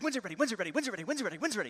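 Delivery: mock impatient little boys; impatient kids. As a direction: kids pestering mom over and over. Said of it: "they're just like".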